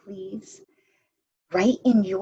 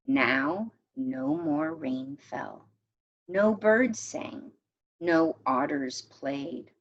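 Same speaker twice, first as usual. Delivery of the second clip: story narration. A narrator's reading. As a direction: read the tale to the class, gently paced. Teacher reads a folk tale aloud.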